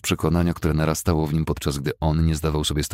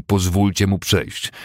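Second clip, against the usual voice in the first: louder command; 4 semitones higher, 5 dB louder, slower than usual. Acted. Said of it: "mówiąc głośniej".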